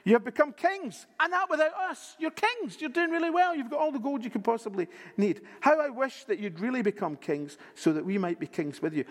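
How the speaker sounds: sarcastic apostle mocking the rich Corinthians. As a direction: lay on the sarcasm like Paul. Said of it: "he's being a little bit sarcastic here".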